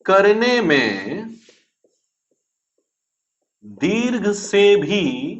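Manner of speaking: drawn-out words in small chunks, long pauses between; slow dictation. Shown as a demonstration. Teacher repeats the definition for note-takers, slow dictation. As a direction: dictate phrase by phrase, each ending lifted.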